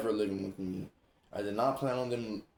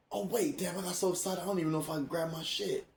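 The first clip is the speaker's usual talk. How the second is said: mock-panicked, higher-pitched thinking aloud; retold sudden realization; 7 semitones higher than usual. Telling sis how she realized the bag was missing, higher mock panic. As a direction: act out a worried realization, pitched up.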